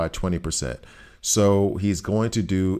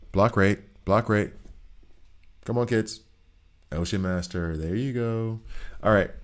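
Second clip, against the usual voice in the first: teacher voice. Acted. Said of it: "doing this whole teacher voice thing".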